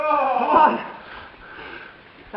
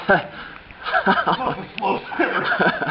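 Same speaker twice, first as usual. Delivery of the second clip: laughing drawl; 4 dB louder, much slower than usual. Real, not acted. Teasing a slow swimmer.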